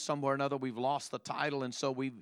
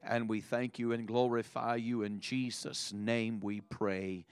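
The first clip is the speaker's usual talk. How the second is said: spoken prayer. Real, not acted. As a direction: lead a church prayer.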